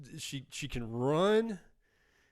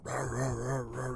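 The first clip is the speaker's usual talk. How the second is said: dog barks imitated. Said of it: "doing the pit bull thing".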